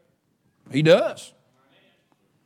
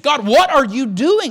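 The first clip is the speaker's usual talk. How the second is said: confused plea to God; 3 semitones higher than usual. Retold or imitated. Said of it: "I'm gonna scratch my head and I'm going to be just a little confused".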